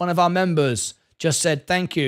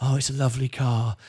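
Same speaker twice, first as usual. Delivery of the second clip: very soft-spoken hushed murmur; 5 semitones lower, 4 dB quieter than usual. Imitating how a man sits there and talks: really soft voice. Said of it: "he sits there in that really soft voice".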